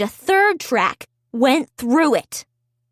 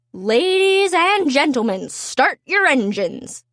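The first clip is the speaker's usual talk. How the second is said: announcer. Acted. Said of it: "called the announcer".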